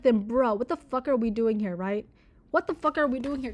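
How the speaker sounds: loud, incredulous ranting at the book; what the hell, bro, at full volume; exasperated rant. Real, not acted. Reader yelling at the novel in frustration, loud and incredulous. Ranting reaction while reading.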